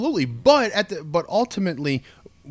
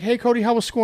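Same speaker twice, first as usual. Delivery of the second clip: a hint of cheerful aunt, higher; lightly voiced cheery aunt; 10 semitones higher, faster than usual. Voicing aunt in story.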